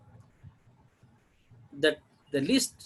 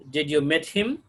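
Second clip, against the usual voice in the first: "Did you meet him" with "him" rising; yes-no question rise. Shown as a demonstration. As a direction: ask it, lifting "him" at the end. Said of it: "These are the questions".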